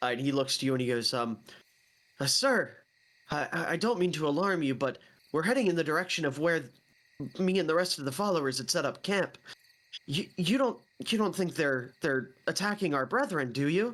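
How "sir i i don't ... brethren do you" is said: timid, scared, nervous, stammering, halting frightened voice. Game master voices a nervous follower speaking to the player, frightened voice. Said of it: "He's kind of like a little frightful".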